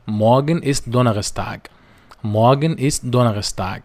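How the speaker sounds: Morgen ist Donnerstag spelled out very slowly, syllable by syllable; slow German demo. Shown as a demonstration. Teacher shows Arabic learners the German sentence, very slowly. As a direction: give each German word slowly so learners can copy it. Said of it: "فأقولها إزاي بالألماني؟".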